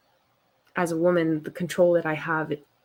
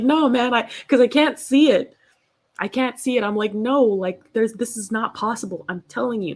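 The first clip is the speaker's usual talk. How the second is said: higher, louder mock-whiny insistence; stubborn protest; 5 semitones higher, 4 dB louder than usual. Refusing to believe her dad, higher whiny protest. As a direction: whine it like a stubborn teen.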